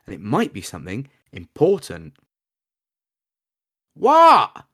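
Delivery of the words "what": high squeaky goblin shout. Acted. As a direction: yelp it like a startled goblin. Goblin Scab blurts a question.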